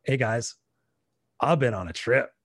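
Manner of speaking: lightly voiced grown-up addressing seventh graders, half laughing; speaking to kids. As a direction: play the returning alum, beaming and a little amused. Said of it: "tell them".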